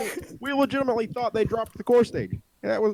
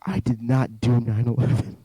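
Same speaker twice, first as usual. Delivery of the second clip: Bush; 8 semitones lower than usual. Acted. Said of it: "I can do a Bush impression".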